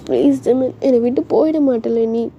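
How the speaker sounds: mildly tearful plea; understated whiny girlfriend plea; acted crying. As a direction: beg him as if close to tears. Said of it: "ஏன் அழுகுற".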